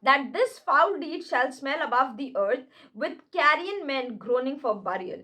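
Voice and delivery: slow, grave Shakespeare reading; dramatic recitation. Acted. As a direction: declaim each word slowly. Reads Shakespeare lines slowly. (धीमा नाटकीय पाठ)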